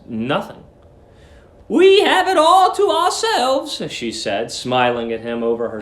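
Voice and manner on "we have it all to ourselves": put-on high, slow, sugary old lady; sweet landlady. Landlady luring the young lodger, high sugary coo. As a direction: coo at him like a doting landlady.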